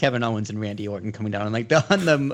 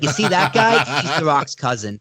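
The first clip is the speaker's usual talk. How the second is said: eager pointing-out; 3 semitones higher, 5 dB louder than usual. Retold or imitated. Acting out explaining wrestlers to family.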